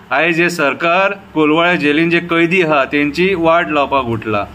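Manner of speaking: repeated refrains with falling line ends; poem recitation. Shown as a demonstration. Citizen reciting a poem about the police, measured recitation. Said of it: "आतां कविता बरयल्या ती आयका".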